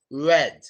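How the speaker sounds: "red" with the tongue down, lips doing the work; low-pitched, rounded R in "red"; relaxed-tongue R. Shown as a demonstration. Teacher showing tongue kept down on "red". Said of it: "Your tongue can be down".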